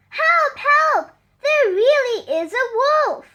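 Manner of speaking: high, loud panicked shout; fake cry for help. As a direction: yell for help as if terrified.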